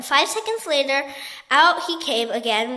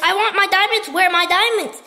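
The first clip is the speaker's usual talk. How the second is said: frantic shriek; 6 semitones higher, 6 dB louder than usual. A narrator's reading. Duchess still screaming.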